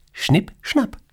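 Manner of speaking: Schnipp, schnapp like a high playful snip of the thread; snipping scissors sound. Acted. Boss acting out Morta cutting the thread, high playful snip. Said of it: "schneidet Morta den Lebensfaden durch".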